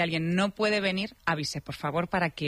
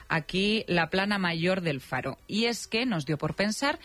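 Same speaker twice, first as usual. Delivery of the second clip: lively, measured radio script read; radio presenter narration; 2 semitones higher, slower than usual. Real, not acted. Presenter telling listeners the voices are alike, playful radio narration. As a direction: present it with playful, drawn-out emphasis.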